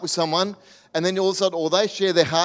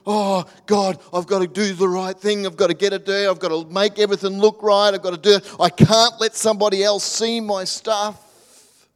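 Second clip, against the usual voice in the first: anxious self-talk; 3 semitones higher, 5 dB louder than usual. Retold or imitated. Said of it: "We try and go".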